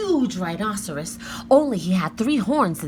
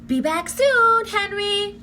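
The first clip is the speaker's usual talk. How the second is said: cheerfully; 12 semitones higher, 4 dB louder, slower than usual. A narrator's reading. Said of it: "she said cheerfully".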